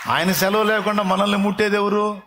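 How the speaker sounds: high, ringing preacher's cry; fervent pulpit exhortation; full-force preaching. Acted. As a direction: preach it out to the whole hall.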